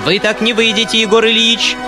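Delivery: high, fast angry rattle; rattling angrily. A narrator's reading. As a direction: block his way with a sharp outburst. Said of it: "затрещала она снова". (гневная трескотня, высоким голосом)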